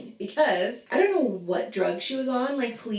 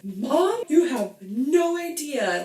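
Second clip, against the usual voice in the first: excited; 6 semitones higher, 3 dB louder, slower than usual. Retold or imitated. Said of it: "I'm like".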